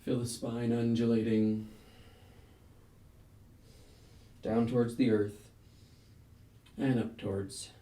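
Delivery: measured breath cues with long pauses between; yoga flow cueing. Real, not acted. Yoga teacher leading a class through a flow, rhythmic breath-paced cueing. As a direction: call each move on the breath, inhales lifted, exhales easing off.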